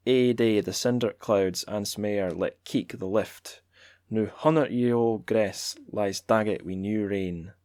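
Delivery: Scots accent. Shown as a demonstration. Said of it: "shall I keep doing the accent?".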